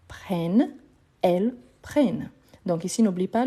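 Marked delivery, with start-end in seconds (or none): 0.1-2.3 "prennent" with open eh and a clear final n; sounded N. Shown as a demonstration. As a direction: land on the n of "prennent". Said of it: "le N, il a le son d'un accent". (« prennent » avec è ouvert et n final prononcé)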